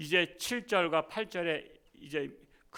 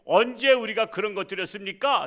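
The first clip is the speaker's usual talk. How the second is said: higher and louder, offended retort; indignant protest; 4 semitones higher, 5 dB louder than usual. Retold or imitated. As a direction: deny it hotly. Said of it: "라고 항변을 한 거예요".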